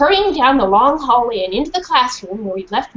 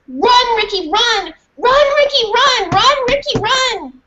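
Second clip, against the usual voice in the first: urgent cry; 13 semitones higher, 4 dB louder, slower than usual. Acted. Mariah urges Ricky to flee.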